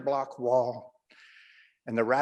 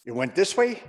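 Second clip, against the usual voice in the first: voice of the dog; 5 semitones higher, 4 dB louder than usual. Acted. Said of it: "and he goes".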